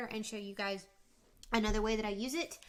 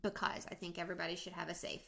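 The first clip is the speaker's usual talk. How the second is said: mouth full. Real, not acted. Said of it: "I'm eating fruit snacks".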